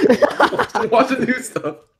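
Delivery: high, slow pleading tone through laughter.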